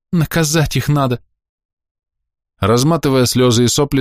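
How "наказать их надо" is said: put-on higher whiny child voice; sulky tearful threat; little girl demanding punishment through tears; whimpering. A narrator's reading. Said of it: "хныкала девчонка".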